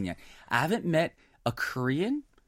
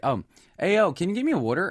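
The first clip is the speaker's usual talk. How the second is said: put-on casual Jersey accent on water; 5 semitones higher, faster than usual. Retelling a request to a new friend, Jersey accent. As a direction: ask with a Jersey "wooder" for water. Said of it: "Oh, there's a Jersey".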